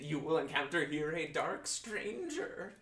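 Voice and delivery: slow, hushed seer's prophecy; mystic fortune teller. Acted. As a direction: foretell it slowly, mysteriously.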